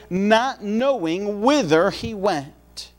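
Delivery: slow, weighty reading of the verse; scripture reading. Acted. Preacher reading Hebrews to the congregation, slow and weighty. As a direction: lay each word down slowly like Scripture. Quoting Hebrews chapter eleven.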